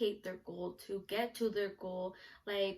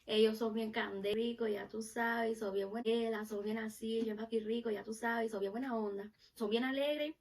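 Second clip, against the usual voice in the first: lightly imitated Caribbean Spanish accent; Cuban-Puerto Rican accent. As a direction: rattle it off in a playful Caribbean accent. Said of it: "because I love their accent".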